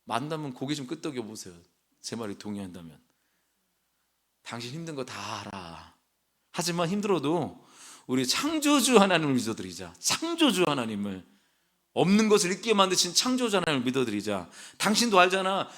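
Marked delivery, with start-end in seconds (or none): 4.4-14.5 reassuring husband. Pretend. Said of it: "이래야지 되는 거 아닙니까".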